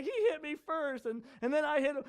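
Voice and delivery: a touch of fake crying; mock crying child. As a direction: imitate a tearful kid tattling. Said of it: "I'd come home crying".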